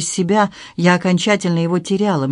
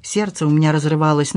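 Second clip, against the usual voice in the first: plain reading voice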